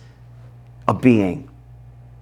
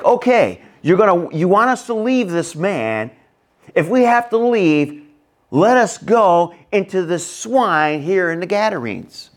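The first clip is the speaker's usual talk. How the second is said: demons pleading with Jesus, pitched up and pushy; 6 semitones higher than usual. Retold or imitated. Demons begging Jesus to send them into swine, raised pleading voice. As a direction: whine it out like bargaining demons. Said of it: "They're like".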